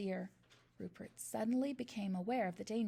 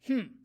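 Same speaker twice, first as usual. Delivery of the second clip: disdainful snort; 7 dB louder than usual. A narrator's reading. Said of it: "she snorted".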